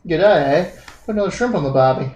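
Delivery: put-on quick, casual Australian accent. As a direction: toss it off in playful Australian. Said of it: "I was saying for Australia".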